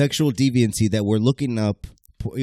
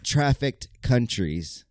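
building game-show countdown; countdown announcer. Acted. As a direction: announce it like a top ten list.

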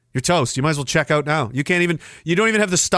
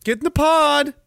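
mock enforcer; 8 semitones higher than usual. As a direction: order them into the pod.

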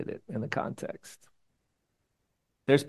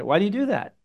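sigh-groan; 7 semitones higher, 5 dB louder than usual. Shown as a demonstration. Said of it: "somewhere between a sigh and".

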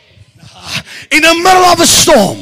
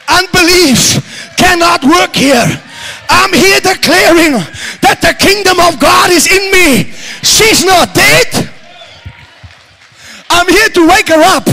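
higher, fervent declaring sermon; full-force preaching; 4 semitones higher than usual. Acted. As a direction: preach it out with rising fire.

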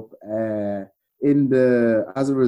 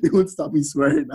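laughing; 5 semitones higher than usual. Real, not acted. Laughing after swearing slip.

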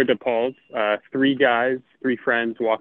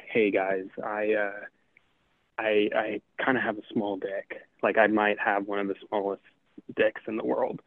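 softer, hesitant, embarrassed admission; sheepish confession; 6 dB quieter than usual. Acted. A joking friend confessing sheepishly to his buddies, softer and halting. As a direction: mumble it out like you're ashamed to say it.

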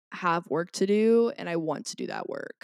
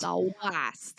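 put-on Boston accent. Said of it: "That's my Boston accent".

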